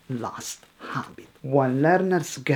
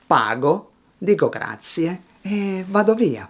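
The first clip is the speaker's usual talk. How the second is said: measured phrases with a pause after each; unhurried storytelling, let each phrase land; clear pauses; 2 semitones higher than usual. Shown as a demonstration. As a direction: pause between every small chunk. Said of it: "pause more".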